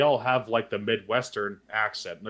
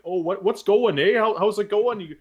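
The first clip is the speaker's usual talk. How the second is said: put-on Newfoundland accent pitched higher and louder; exaggerated Newfoundland accent, Irish-tinged, higher; mock Newfoundland accent; 9 semitones higher, 5 dB louder than usual. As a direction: imitate a thick Newfoundland accent. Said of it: "that is the accent everyone thinks".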